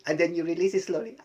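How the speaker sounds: fast, laughing through the words. Shown as a demonstration. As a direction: let the words spill out laughing. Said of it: "even laughing".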